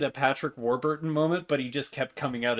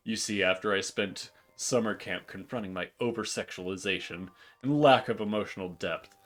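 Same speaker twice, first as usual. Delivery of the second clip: sexy Minotaur voice; 3 semitones lower than usual. Acted. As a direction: purr it like a vain showman. Morty character voice.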